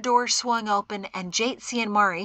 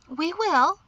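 higher-pitched reassurance; assuring; 8 semitones higher than usual. A narrator's reading. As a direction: assure him readily. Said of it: "she assured him".

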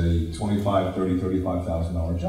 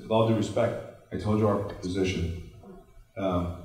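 polite retold; 3 dB quieter than usual. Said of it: "I said very politely".

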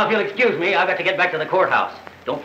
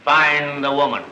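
rehearsed declaration; 3 semitones lower, slower than usual. Shown as a demonstration. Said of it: "say it in plain English".

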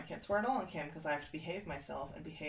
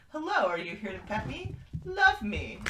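cat's voice; 5 semitones higher, 10 dB louder than usual. Retold or imitated. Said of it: "she was just like".

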